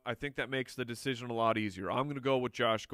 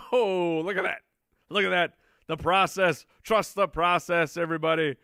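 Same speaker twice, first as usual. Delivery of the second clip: excited; 5 semitones higher, 6 dB louder than usual. Real, not acted. Pleased by the rankings.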